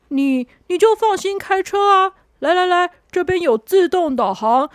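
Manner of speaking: calm her down, no worries; reassuring helper. Acted. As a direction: helper reassuring the nervous girl.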